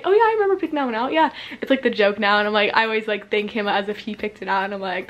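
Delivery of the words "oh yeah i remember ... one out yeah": lightly mocked grandpa, higher and quick; hint of a jokey grandpa, hurried; joking grandpa. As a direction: play along with a fib, pitched up. Voices grandpa's running joke.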